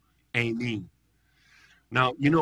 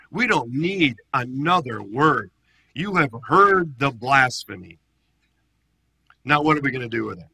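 louder ranting demand; 2 semitones higher, 6 dB louder than usual. Retold or imitated. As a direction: whip up the council. High priest raging at council.

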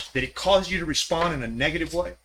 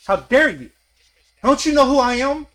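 mock defiance; 5 semitones higher, 3 dB louder than usual. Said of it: "I've shaken my fist at God and said".

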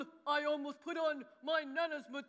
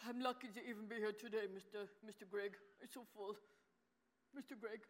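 stuffed full; 5 semitones lower, 10 dB quieter than usual. Acted. George fading, overfull.

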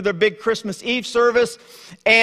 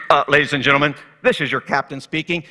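a pilot starting an announcement; airline captain; 6 semitones lower, faster than usual. Retold or imitated. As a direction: lower captain voice with a hesitant "Uh". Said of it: "The captain comes on the intercom and says".

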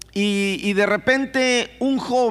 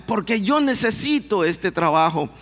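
happy. Retold or imitated. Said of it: "bien contento diciendo".

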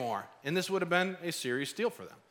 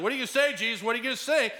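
mock yelling accusers; 4 semitones higher, faster than usual. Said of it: "They keep yelling".

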